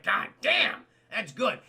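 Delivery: half-hearted mock wow; impressed exclaim. Kevin Kline's character admits he was caught, mildly impressed.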